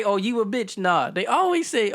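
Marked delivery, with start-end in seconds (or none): 0.0-0.8 mock harsh insult. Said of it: "it wouldn't come off as harsh".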